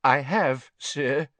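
frightened prisoner answering; a scared, cringing yes sir. A narrator's reading. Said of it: "his voice was very scared".

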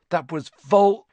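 high, loud croak, cut off. A narrator's reading. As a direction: croak out a name and break off. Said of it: "Harry croaked".

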